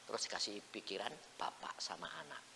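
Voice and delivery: soft hushed whisper; whispered as a secret; confiding whisper. Real, not acted. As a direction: lean in and whisper it.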